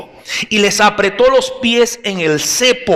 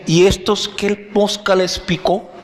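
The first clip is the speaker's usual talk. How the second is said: puzzled prisoners; 5 semitones higher than usual. Acted. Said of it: "allí se preguntaban también".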